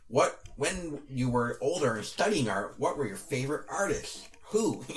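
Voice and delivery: lightly put-on nerd reading a question; slightly nerdy interviewer, drawn-out words. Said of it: "I'll do my nerd voice".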